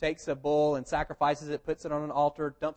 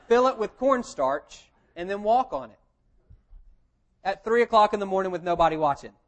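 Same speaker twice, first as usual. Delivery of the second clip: laughing mockery; 3 semitones higher, 7 dB louder than usual. Real, not acted. Mocking the cornstarch theory.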